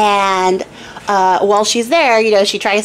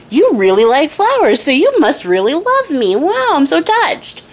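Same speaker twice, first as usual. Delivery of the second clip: hammed-up touched king; 6 semitones higher than usual. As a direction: gush like a flattered king. King moved by flowers answer.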